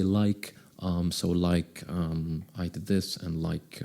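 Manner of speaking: low, soft hesitant mumbling with fillers; filler-laden speech. Retold or imitated. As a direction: imitate someone stalling between filler words. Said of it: "they say".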